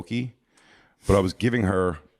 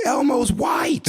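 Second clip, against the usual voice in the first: put-on high shrill kid scream, much louder; 5 dB louder, much slower than usual. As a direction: scream it like a bratty kid exposing Elmo.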